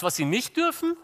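normal talking voice

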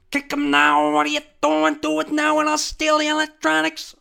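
very high, loud squeaky yelling; bossy little sidekick. Acted. Little monkey ordering the ostrich to attack, shrieky bossy voice. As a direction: order the big goon around frantically. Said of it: "the monkey's the little guy".

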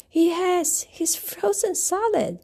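high, startled and breathless; an elephant discovering frozen Elmer, shocked; shocked gasp. Acted. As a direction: blurt it out in alarm. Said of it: "gasped one of the elephants".

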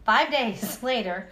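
cracking up mid-sentence; slow line broken by a laugh. Real, not acted.

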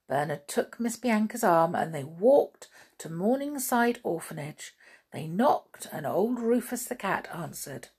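animated storybook narration with character voices; story reading to children. A narrator's reading. Reader telling children about two mice, expressive storytelling. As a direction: read it to little ones, lively and deliberate.

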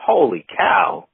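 surprised. Real, not acted. Reacting to seven-album deal.

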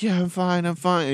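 put-on a shaken young Indian woman insisting she is fine; Indian accent. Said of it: "She had the typical, like, Indian accent".

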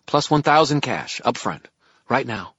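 high, loud, desperate push; urgent girl voice. A narrator's reading. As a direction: press the deal hard. Merrill pressing offer.

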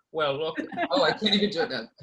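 loud Midwestern-mom attempt at a celebrity; failed impression of a singer. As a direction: try the star voice and laugh at it. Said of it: "sound like a weird Midwestern mom".

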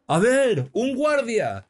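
very high, loud call; shouting. A narrator's reading. Churchgoer calling a guard on the drunk, high shout. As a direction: shout urgently for the police. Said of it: "gritaba uno".

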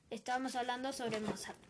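speaking with a dry mouth; dry-mouthed, sticky speech. Real, not acted. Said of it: "tengo la boca seca".

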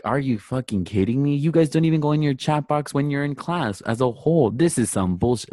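losing it. Retold or imitated. Professor scolding students over the chat box, losing it. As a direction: mimic an outraged professor cursing out students. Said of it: "this lady just lost it".

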